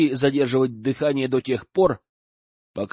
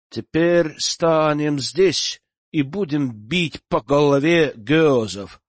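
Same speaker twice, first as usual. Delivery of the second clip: calm northerner; slower than usual. Acted. Northerner speaks calmly after kill.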